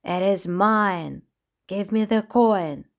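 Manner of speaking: slow, menacing villain voice; furious clown voice. Acted. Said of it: "face was twisted with fury".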